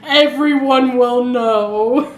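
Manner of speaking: mock-worried superhero, laughing through it; Clark Kent. Podcaster imagines Superman hiding his southern accent, mock-worried. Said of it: "he'll be like".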